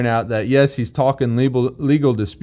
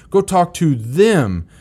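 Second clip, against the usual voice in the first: slow emphatic command; 4 semitones higher, slower than usual. Shown as a demonstration. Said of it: "preacher's emphasis".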